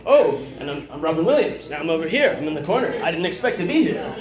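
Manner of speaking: surprised, breathless Robin Williams; manic, startled Williams patter; Robin Williams impression. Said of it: "surprised or out of breath".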